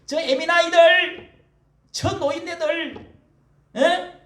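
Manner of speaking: high, loud mocking jeer; mocking sneer. Children jeering at elderly flag-wavers, mocking and loud. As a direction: spit out the insults with contempt. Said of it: "사람들의 태극기를 흔들고".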